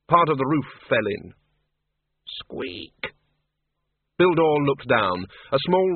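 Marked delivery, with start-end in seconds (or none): 2.4-3.1 a faint, breathy rat squeak; tiny whispered squeak. Acted. Death of Rats calls to Bill, a soft whispered squeak. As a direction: squeak very softly.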